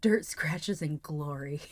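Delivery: breathy hushed whisper. Real, not acted. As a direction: whisper it close to the mic. Whispered phrase to stream.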